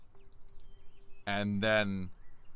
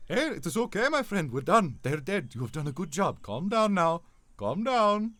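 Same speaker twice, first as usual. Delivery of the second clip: higher, louder reassuring voice; soothing friend voice; 8 semitones higher, 6 dB louder than usual. Acted. Roshin calming the raging Lucian, high and reassuring. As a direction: coax him down gently.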